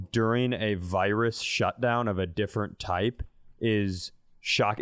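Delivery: normal talking voice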